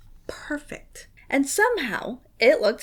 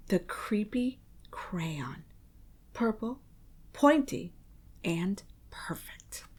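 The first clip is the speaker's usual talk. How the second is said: slow, soft, low whispered reveal; spooky hush; eerie whisper; 4 semitones lower, 12 dB quieter than usual. A narrator's reading. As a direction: let it creep in quietly.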